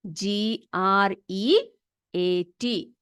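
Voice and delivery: each letter spaced out, very slow; spelling out slowly. Shown as a demonstration. Teacher spelling a word for her class, very slow. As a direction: spell it slowly so children can copy. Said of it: "spelling देख लो ग्रेट का".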